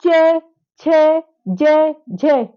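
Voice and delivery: each of च, छ, ज, झ said alone and clearly; letter demo. Shown as a demonstration. Teacher leading class in reciting letters, clear and separate. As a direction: model the palatal letters one by one. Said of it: "आप बोलिए च".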